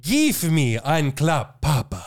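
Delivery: slow, low sultry purr; sexy voice. Pretend. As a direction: read it slowly and seductively. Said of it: "let me do my more sexy voice".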